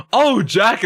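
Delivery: sudden realization. Retold or imitated. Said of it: "And he went".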